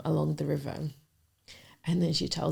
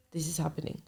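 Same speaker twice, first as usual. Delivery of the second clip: whispered thought; 5 dB quieter, faster than usual. Retold or imitated. Shocked inner thought on seeing ring.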